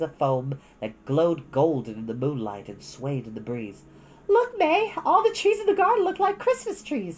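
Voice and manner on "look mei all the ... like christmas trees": put-on much higher girl's voice, a bit louder; a delighted big sister pointing something out; bright high child voice, thrilled; Satsuki excited. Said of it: "Satsuki said".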